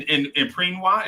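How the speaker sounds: PREENWA with an R and a long ee; patois misread as "Preenwa"; mispronounced patois. Real, not acted. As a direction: say Preenwa slowly, PREEN-wah. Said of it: "I said it in".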